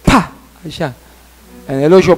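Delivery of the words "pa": short "pa" thud; sudden popped landing noise; imitated impact. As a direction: make the sound of hitting bottom. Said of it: "Y cayó".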